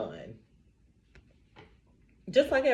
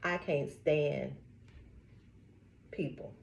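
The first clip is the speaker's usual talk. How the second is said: retold disdain; 5 semitones lower, 9 dB quieter, slower than usual. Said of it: "and this lady said".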